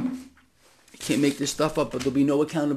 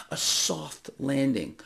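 mocking their phrase; 3 semitones lower, 5 dB quieter, slower than usual. Real, not acted. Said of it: "You notice that word?".

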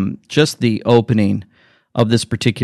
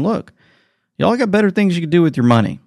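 kind appeal; 7 semitones higher, faster than usual. Retold or imitated. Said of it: "he does it in a kind way".

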